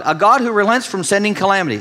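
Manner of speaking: mock God's kindness as if it were a fault; sarcastic told-you-so. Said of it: "you get his "I told you so" tone".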